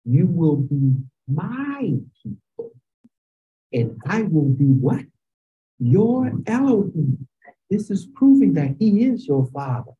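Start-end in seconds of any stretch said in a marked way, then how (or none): 0.0-7.3 slow, leading the class to fill in; slow call-and-response emphasis. Shown as a demonstration. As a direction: spell it out slowly for them. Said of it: "Did you hear what he said?".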